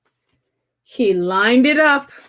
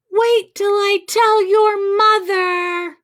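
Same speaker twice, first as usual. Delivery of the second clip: put-on raised, higher scolding threat to the kids; scolding neighbour; 7 semitones higher, 4 dB louder than usual. Reader voicing a neighbour threatening to tell mother, scolding. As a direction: warn the children like a cross neighbour. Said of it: "someone in the house is saying".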